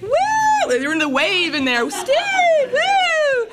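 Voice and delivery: high mock cheering yell of a crowd. Imitating the meeting room cheering for Steve, high whoops. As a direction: whoop like the whole room greeting him.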